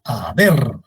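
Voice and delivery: "haber" with a long, leaned-on BER; ha-BER, stretch the ending; stress on last syllable. Shown as a demonstration. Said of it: "La sílaba tónica es ver".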